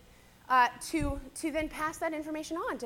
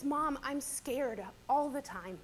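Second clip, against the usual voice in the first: crying; 4 dB quieter than usual. Real, not acted. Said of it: "see, I'm crying".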